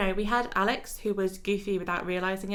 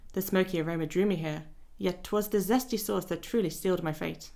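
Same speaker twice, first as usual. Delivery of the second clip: put-on light British accent on a dandy's line. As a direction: read it with a touch of a British accent. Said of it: "saying it in a British accent".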